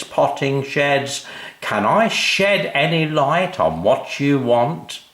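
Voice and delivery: high, slow, chirpy sales patter; cheery salesman. A narrator's reading. Mister Shed greeting the family, high and cheery. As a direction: beam at the customers like a mascot. Salesman soothes crying girl.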